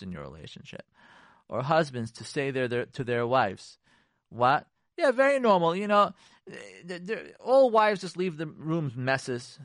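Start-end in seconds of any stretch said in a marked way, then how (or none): 4.3-9.6 sarcastic. Acted. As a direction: jeer while pretending to agree.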